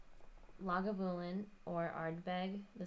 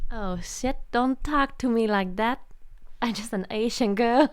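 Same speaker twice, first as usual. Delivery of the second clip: loud, mock-indignant protest; mock offended; 4 semitones higher, 16 dB louder than usual. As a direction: act hurt, loudly and playfully. Mock offended reply to teasing.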